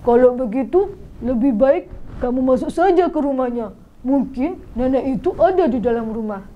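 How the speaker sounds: light villager voice giving advice; voiced villager. Villager advising Muhammad to go in, gently. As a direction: nudge him kindly toward the house.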